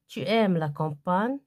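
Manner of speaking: rising question tune; question intonation. Shown as a demonstration. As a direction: voice rises on "Tu aimes la campagne" to make a question. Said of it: "changement d'intonation plus point d'interrogation".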